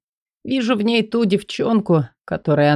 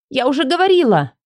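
Элли's voice; 8 semitones higher, faster than usual. Acted. Элли higher, fast.

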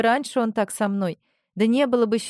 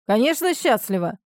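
boastful; 2 semitones higher, 4 dB louder than usual. Acted. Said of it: "мужского бахвальства".

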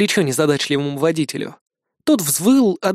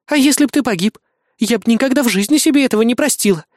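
indignant scolding; 7 semitones higher, faster than usual. A narrator's reading. Azumi scolds her nephew while bandaging him. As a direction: scold him for risking his life. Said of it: "возмущалась Азуми".

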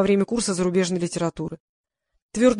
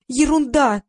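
high, bright-sounding chirp; chirpy; 6 semitones higher, 4 dB louder, much slower than usual. Acted. Press secretary brushing off her friend's worry, chirpy. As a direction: chirp it off lightly. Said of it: "зачирикала пресс-секретарь".

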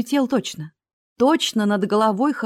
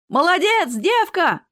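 much higher, louder cheer; shouting out; 10 semitones higher, 4 dB louder, slower than usual. A narrator's reading. Someone in the crowd shouts approval at the girl. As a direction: yell it from the crowd. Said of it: "выкрикнул кто-то".

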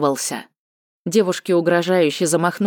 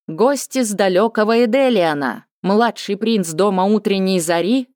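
higher, ceremonious herald call; town crier; 4 semitones higher than usual. Acted. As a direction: announce the guests grandly. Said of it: "торжественный голос глашатая".

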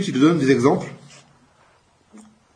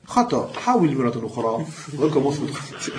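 toy voice. Retold or imitated. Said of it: "Tu vois, avec une voix".

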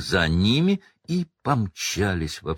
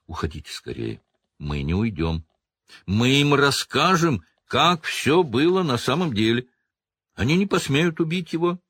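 rising distress; 6 semitones higher than usual. Acted. Hagrid pleading, rising distress.

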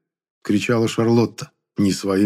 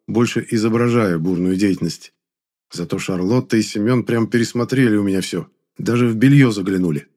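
usual speaking voice

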